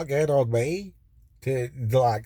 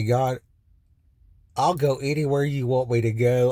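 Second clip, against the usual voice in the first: earnest vow. Retold or imitated. Vow to God in jail.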